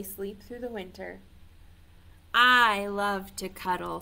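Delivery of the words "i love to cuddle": put-on baby bear voice. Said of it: "says the baby bear".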